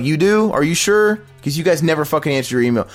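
high incredulous retort; mock disbelief. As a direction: act stunned she claims to answer.

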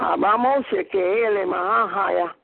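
speaking in tongues. Real, not acted. Prayer in tongues.

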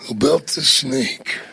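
slow wrestler impression; Macho Man. Macho bringing up the snake, slow imitation. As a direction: draw it out as the wrestler. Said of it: "You did a great Macho Man".

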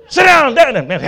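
high, loud mock command to dogs; loud half-hearted command. Preacher imitating himself ordering dogs, loud high. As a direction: bark the order at the little dogs.

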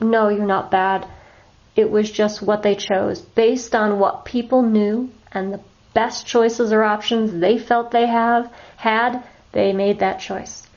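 slow, calm reassurance without blame; non-judgmental reassurance. Shown as a demonstration. To a shelter animal, calmly reassuring it is not bad. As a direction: explain kindly, no judgment in it. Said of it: "you wanna address that as it comes up".

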